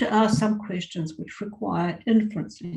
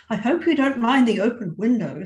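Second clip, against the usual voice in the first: cheerful; 4 semitones higher, 5 dB louder than usual. Acted. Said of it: "said the aunt cheerfully".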